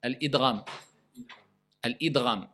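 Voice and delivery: "Al-idgham" as a measured drill prompt; careful model pronunciation. Shown as a demonstration. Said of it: "Allez, dites-le".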